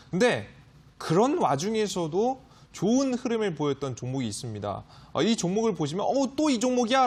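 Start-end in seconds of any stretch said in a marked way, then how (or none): 6.0-7.1 voicing a viewer's doubt, higher and lightly surprised; a light, half-joking "this one again?"; mock surprise. Stock expert imitating a doubtful viewer, mild mock surprise. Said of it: "라고 말씀하실 수도 있는데요".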